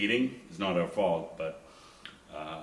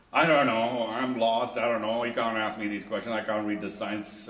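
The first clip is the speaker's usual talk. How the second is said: panicked yelling; 4 semitones higher, 8 dB louder than usual. Retold or imitated. Lost wife panicking on phone.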